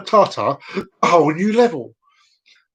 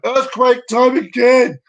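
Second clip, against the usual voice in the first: high, loud slow exclamation; playful excited shout; 6 semitones higher, 4 dB louder than usual. Pretend. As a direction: announce it like a big event. Excited callback to a catchphrase.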